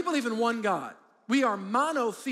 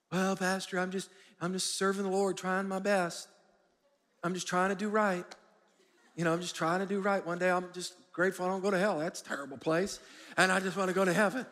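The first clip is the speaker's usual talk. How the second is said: humble churchgoer; 2 semitones lower than usual. Acted. Churchgoer explaining himself to the pastor, lightly acted humility. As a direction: play down your faith, like a modest believer. Voices a modest, unambitious churchgoer.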